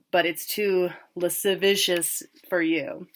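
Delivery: slow, teasing put-on of the word; mocking pronunciation. Sam teases Tim by mimicking his slow mocking delivery. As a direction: drag it out to make fun of his brother. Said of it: "he makes fun of the way he says it".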